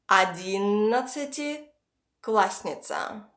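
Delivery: Одиннадцатиклассница with a pause before классница; split in two. Shown as a demonstration. Teacher makes a long word easier, split into two parts. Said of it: "split this word into two parts".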